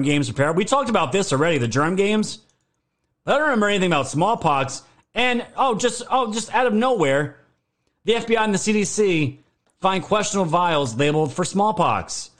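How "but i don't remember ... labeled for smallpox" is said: suddenly alarmed, higher pitch; alarmed surprise. Real, not acted. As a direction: voice jumps up in disbelief.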